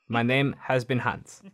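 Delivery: 3 hammed-up German footballer; 1 German accent. Shown as a demonstration. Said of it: "This is my German accent".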